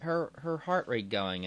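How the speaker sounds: hammed-up nurse checking the monitor; alarmed nurse. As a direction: squeal it like a flustered nurse. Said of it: "she's like".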